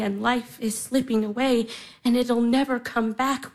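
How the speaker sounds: ordinary talk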